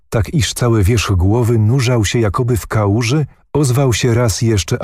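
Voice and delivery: ordinary delivery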